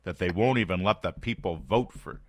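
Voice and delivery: mock the pundits' outrage; a hint of a smug commentator; mocking media voice. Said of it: "people on the left and in the media saying".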